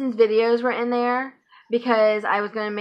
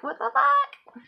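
drawn-out, higher what the fuck; mock disbelief; 14 semitones higher, 3 dB quieter, slower than usual. To herself about the thief, slow stunned high disbelief. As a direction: stretch it out, pitched up in disbelief.

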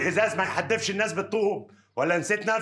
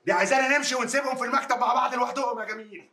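jealous shout; 4 semitones higher than usual. Acted. Jealous ex-husband shouting in office.

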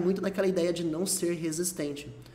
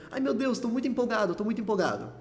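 empolgado em português; 4 semitones higher than usual. Shown as a demonstration. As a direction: demo of everyday excitement, unstretched. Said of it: "É assim que a gente falaria no português". (empolgação encenada, sem esticar as palavras)

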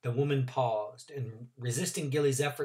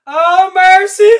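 falling cry; 20 dB louder, slower than usual. Acted. Trotter falling.

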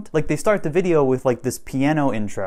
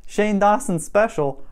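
higher-pitched questioning repeat; puzzled, pitched-up query; incredulous echo; 6 semitones higher than usual. Real, not acted. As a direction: echo the title as if baffled by it. Repeats the title in disbelief.

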